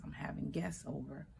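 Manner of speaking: a soft, voiceless aside; retold whisper. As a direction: drop to a secret whisper as the mother. Mother refusing water in dream.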